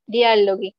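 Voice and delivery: "Dialoghi" con gui final, como en guitarra; g dura italiana. Shown as a demonstration. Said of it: "esto se pronuncia como gui". (la "ghi" de "Dialoghi" suena gui)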